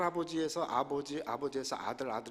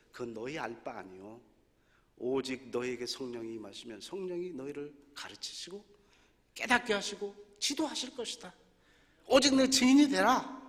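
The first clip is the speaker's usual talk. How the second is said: Jesus reading it his way. Shown as a demonstration. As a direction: read as Jesus' brush-off, then rise to a firm order. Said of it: "저는 이렇게 읽는 거예요". (예수님 말투로, 점점 힘주어 명령하듯)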